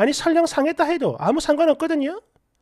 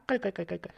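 much softer, lower mock laugh; read-out cackle; 6 semitones lower, 12 dB quieter, faster than usual. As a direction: token spelt-out giggle, very quiet. Reads out a comment's written laughter.

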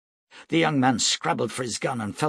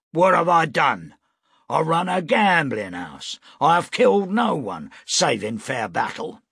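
indignant protest; 6 semitones higher, 5 dB louder than usual. A narrator's reading. Weber protesting, accused.

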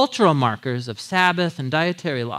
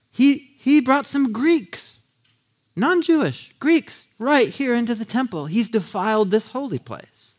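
high, slow, scandalized accusation; ticked off; 7 semitones higher than usual. Acted. Angry crowd accusing Paul of defiling the temple, high and slow. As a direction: spell out the outrage word by word. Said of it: "They're totally ticked off".

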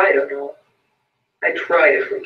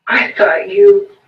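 much higher, louder, slow scream; fiendish scream; 5 dB louder, slower than usual. A narrator's reading. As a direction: break into a wild scream. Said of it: "he screamed fiendishly".

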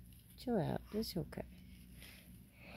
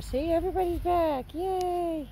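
higher, louder happy cheer; cheerful; 9 semitones higher, 5 dB louder than usual. Real, not acted. Owner cheering as the family returns, higher and louder. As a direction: celebrate for the dog.

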